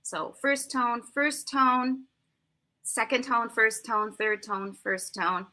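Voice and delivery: slow, careful tone pairs; slow tone pair drill. Shown as a demonstration. Teacher slowly drilling Mandarin tone pairs. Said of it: "you learn tone pairs".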